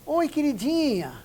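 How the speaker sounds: mock an overly intimate caller; overfamiliar flirty greeting. Shown as a demonstration. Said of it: "Ele fala assim".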